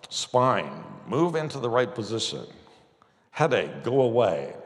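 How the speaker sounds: firm, level command to the spine; commanding a body part. Shown as a demonstration. Preacher demonstrating commanding pain away, firm. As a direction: order the headache away with authority.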